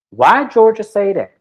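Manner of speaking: can you believe she said that; incredulous. Real, not acted. Host reacting to Georgia's slip, incredulous and loud.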